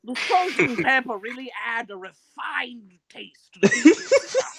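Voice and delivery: high, loud, hammed-up snooty gourmet; mock aristocrat praising the food, climbing to a peak; refined diner. Friend mocks tuxedoed pizza diners, hammed-up refined voice. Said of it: "full tuxedo and garb, and you're, like".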